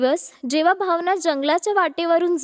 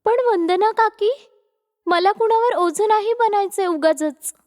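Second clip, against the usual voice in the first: slightly higher, polite protest; lightly voiced earnest niece; hesitant young woman; 4 semitones higher than usual. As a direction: decline modestly. Reluctant to burden the kind aunt.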